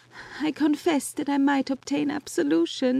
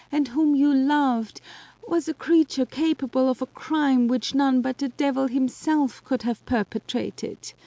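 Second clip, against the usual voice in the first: high voice, breaking with tears; weeping; 11 semitones higher than usual. Acted. Justine weeping as she tells Elizabeth of her horror. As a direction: speak through weeping, then soften toward heaven.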